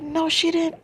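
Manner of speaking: high, loud, protesting denial; retold disbelief. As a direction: cry it out in naive disbelief. Acts out her own disbelief.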